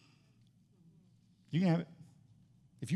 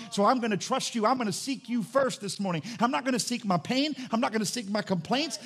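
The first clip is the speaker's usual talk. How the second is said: fervent prayer; 3 semitones higher than usual. Retold or imitated. Acted morning prayer.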